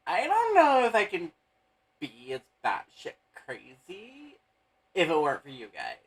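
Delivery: lightly voiced valley girl; high bubbly airhead girl. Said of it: "She says".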